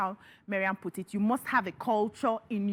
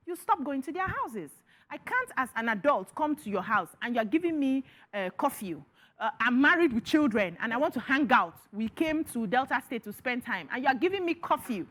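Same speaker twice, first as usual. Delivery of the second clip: indignant complaint; 4 semitones higher than usual. Acted. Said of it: "Who are you talking to?".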